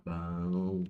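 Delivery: low, settled approval; satisfied bom. Shown as a demonstration. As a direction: say it like it's genuinely good. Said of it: "Ela não passa nem perto de ruim".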